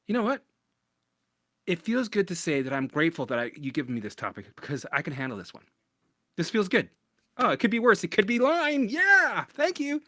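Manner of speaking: high, loud, sing-song mock thanks; mock cheerful gratitude. Mock grateful quote to self.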